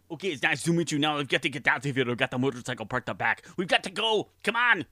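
Arnold Schwarzenegger impression. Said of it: "Please welcome Arnold".

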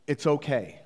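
sincere, settled reassurance; genuine. Retold or imitated. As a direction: calmly let him off the hook. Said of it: "And I was genuine".

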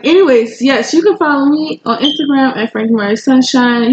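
picking the energy back up; energized. Real, not acted. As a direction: perk up for the listeners. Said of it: "Let me pick it up".

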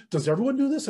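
high-pitched, disbelieving question; retold incredulity. Newcomer asks his mentor about the group, incredulous. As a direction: imitate a naive, astonished newcomer.

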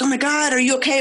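retold panic. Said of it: "Freaking out".

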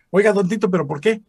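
high, pleading protest; surprised protest. Retold or imitated. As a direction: ask why in disbelief. Protesta del joven actor. (protesta sorprendida, más aguda)

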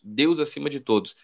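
quiet afterthought repeat; soft repeat. Shown as a demonstration. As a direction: say it again under your breath. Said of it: "com uma placa dizendo".

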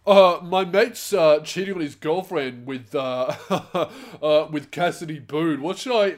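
mocking, halting put-on voice; hammed-up dim questioner, breaking into a laugh; stupid message writer. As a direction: imitate a dopey advice seeker, stumbling on "uh". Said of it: "I got some stupid fucking message like".

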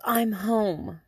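mock-defiant announcement of being back; teen attitude. Daughter answers angry mother on getting home, imitated with attitude. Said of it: "Attitude and all".

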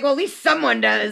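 chuckling through a retold line; laughing. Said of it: "and I'm like".

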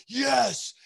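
high, drawn-out excited yes; fired-up cheer. Retold or imitated. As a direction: cheer along with the imagined crowd. Joins the fired-up crowd.

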